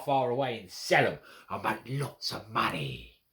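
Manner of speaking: put-on rough old man voice, scheming to his rat; a rough dog catcher talking his rat into a plan; gruff dog catcher.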